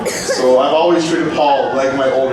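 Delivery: chuckling while talking; laughing through it. Acted. Joking toast with laughter.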